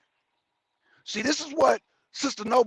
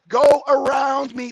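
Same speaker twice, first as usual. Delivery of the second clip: road rage; 5 semitones higher, 9 dB louder, slower than usual. Real, not acted. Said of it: "Little road rage".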